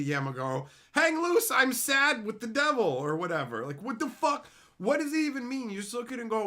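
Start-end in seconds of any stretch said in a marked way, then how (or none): 0.9-2.8 high loud goofy voice; mock emoji reading. Reading emojis aloud, high loud goofy voice. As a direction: read the emojis like an excited kid.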